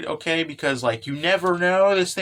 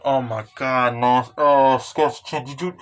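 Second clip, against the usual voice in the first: retold shock; 3 semitones lower, 4 dB louder than usual. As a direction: re-enact a reader's dismayed outburst. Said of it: "I was literally going".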